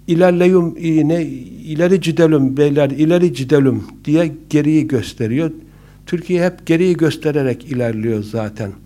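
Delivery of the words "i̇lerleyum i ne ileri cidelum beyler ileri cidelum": put-on bus driver's Black Sea accent. Black Sea bus driver urging passengers forward, in regional accent. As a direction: call out in a Karadeniz Turkish accent. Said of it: "Karadenizliymiş".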